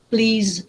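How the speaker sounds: Please with the last consonant sounded; clear final sound. Shown as a demonstration. Teacher reminding a student of endings, Please with final z. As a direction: finish Please on an audible z. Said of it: "pronounce the final sound".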